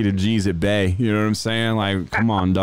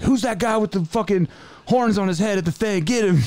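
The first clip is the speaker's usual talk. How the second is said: mocking snitches; 10 semitones higher than usual. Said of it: "all those people are like".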